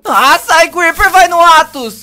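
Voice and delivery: loud frantic shouting; panicked yelling. Acted. Kadris begging the creepers to go away, loud and frantic. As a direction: shout as you run from the mob.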